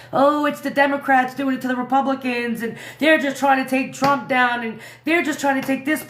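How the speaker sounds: parroting what everyone thinks, in a snide tone; mocking quote. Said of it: "Everyone thinks, like".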